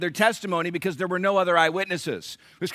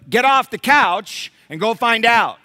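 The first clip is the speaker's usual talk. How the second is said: a touch louder, slower mock wife command; mock wife order; 3 semitones higher, 6 dB louder, slower than usual. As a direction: play the wife telling her husband to go check. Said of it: "her speaking woman to you".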